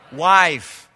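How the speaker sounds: loud emphatic WIFE; a firm, loud "Wife". Shown as a demonstration. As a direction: call out "Wife" with the crowd. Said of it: "Let's say it again".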